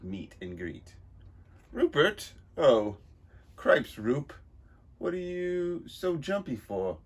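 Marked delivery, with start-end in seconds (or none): 1.7-7.0 high, loud henchman greeting; gruff henchman. Acted. Marco startling the nervous boss. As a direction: call out to the jumpy boss.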